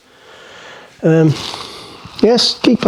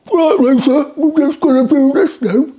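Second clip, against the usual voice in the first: high, louder put-on Australian voice; Australian accent; 11 semitones higher, 4 dB louder than usual. Cook mimicking the Australian fella talking to Lisa, hammed-up Australian accent. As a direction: do your best mock Australian accent. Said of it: "my best Australian accent".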